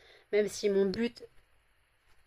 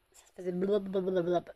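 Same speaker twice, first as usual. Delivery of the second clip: imitating a gurgle. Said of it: "vous devez entendre mon ventre".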